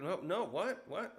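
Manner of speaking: high, taken-aback retold reaction; flustered refusal. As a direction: balk in mock disbelief. Retold startled refusal of proposal.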